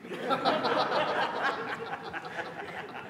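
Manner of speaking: high, soft laugh. Real, not acted. Speaker laughing at his own joke to audience.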